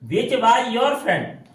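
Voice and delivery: slow dictation. Shown as a demonstration. Teacher presenting the next English sentence, very slow. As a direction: read each English word very slowly. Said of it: "अब देखो".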